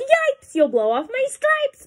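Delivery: high, loud storybook yelp; alarmed yell. A narrator's reading. Zebra yells at the elephant about its stripes, alarmed. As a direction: yelp it out high, then ease slightly. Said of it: "The zebra yelled".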